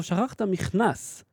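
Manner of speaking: slow, lightly acted dub line; dubbed cartoon mom. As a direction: draw it out like a dubbed movie mother. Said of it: "והאמא אומרת לו". (חיקוי קל של אמא מדובבת)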